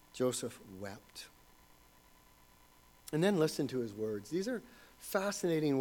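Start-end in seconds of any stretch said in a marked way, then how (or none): 0.1-1.3 much softer and slowed right down; hushed, slow reverence. Acted. Preacher returning to Joseph's tears, hushed and slow. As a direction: let it sink in, barely above a murmur.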